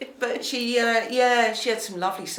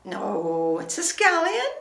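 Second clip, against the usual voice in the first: put-on Northern Irish accent; much slower than usual. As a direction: imitate an indignant Derry girl. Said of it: "it sounded like Derry Girls".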